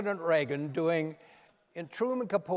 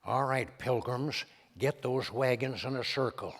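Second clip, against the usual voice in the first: John Wayne; 4 semitones lower than usual. Retold or imitated. Reagan showing off his John Wayne to the comedian, lightly drawled. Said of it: "a pretty fair John Wayne".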